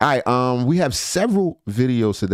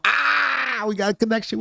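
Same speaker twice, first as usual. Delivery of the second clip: mock high greeting; 12 semitones higher than usual. Stream opening, mock greeting voice.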